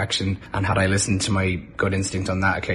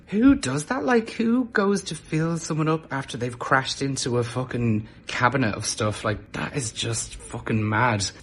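incredulous outrage; 3 semitones higher, slower than usual. Retold or imitated. Outraged at man groping her.

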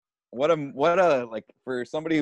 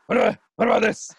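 mock fussy star; 11 semitones higher, 6 dB louder, faster than usual. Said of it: "He's like".

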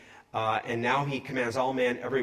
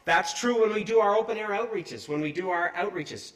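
high, laughing mock voice; mocking laughter; 5 semitones higher, 3 dB louder than usual. Heckler laughing off the street preacher, mocking. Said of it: "Some are like".

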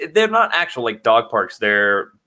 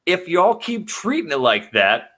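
slow, higher, drawn-out warning; mock scolding rant; 4 semitones higher, slower than usual. To people downplaying the virus, a slow mock scold. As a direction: lecture them slowly from up high. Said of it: "And I'm like".

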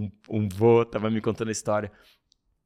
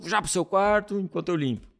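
stern parent barking an order, raised pitch; mock parent order; 7 semitones higher than usual. Parent scolding child after spill, stern order. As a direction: send the kid to his room sternly.

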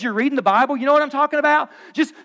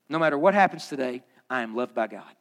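"loved" said softer and lower, almost to himself; whispered-down second take of the affirmation; softer repeat; 10 semitones lower, 6 dB quieter than usual. Shown as a demonstration. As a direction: let the repeat sink in, more softly. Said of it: "Say that".

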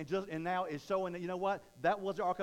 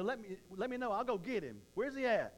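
fired-up Mary; 5 semitones higher than usual. Retold or imitated. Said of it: "she's like".

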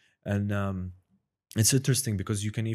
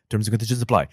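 super fast disclaimer; 7 dB louder, faster than usual. Shown as a demonstration. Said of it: "like, super fast".

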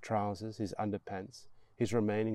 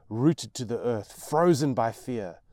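ordinary delivery

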